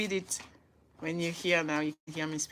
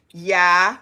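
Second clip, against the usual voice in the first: laughing; 13 dB louder than usual. Real, not acted. Laughing at German word.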